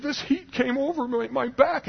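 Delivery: high-pitched imitation of an old man; Bob. Old man telling the helper about his healing, high voice. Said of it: "He said".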